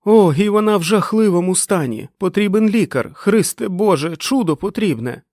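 high, loud, urgent yell; shouting over motorbikes. A narrator's reading. Dick begs for a doctor over motorbikes, shouting. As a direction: yell desperately for help over engines. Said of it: "перекрикуючи мотоцикли".

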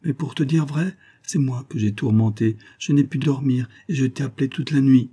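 a hint of a bashful young girl; young girl's voice. Jane shyly explaining to Elim why she pushed him away, lightly voiced.

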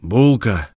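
mild call to the robot; captain calling the robot, a mild shout. Acted. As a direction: call the robot's name sharply. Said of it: "крикнул роботу капитан".

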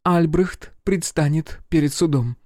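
high, firm female voice; grim and resolute. A narrator's reading. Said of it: "мрачно и решительно".

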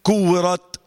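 "كورت" ending on an audible breathy ت; hissed final taa. Shown as a demonstration. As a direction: let the ت of "كورت" whisper out. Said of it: "اسمعني كده".

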